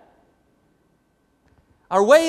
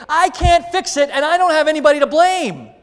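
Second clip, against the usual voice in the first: voicing Jeremiah; 6 semitones higher, 4 dB louder than usual. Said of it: "What's he saying?".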